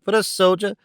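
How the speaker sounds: hammed-up offense at the idea; indignant echo. A narrator's reading. Husband echoing himself in mock horror. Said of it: "cried the man".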